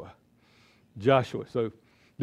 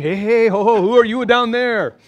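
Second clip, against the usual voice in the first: high, loud mock-French cartoon pea taunting; 6 semitones higher, 6 dB louder than usual. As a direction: play a cheeky cartoon pea calling down from the wall. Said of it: "two French peas on the wall going".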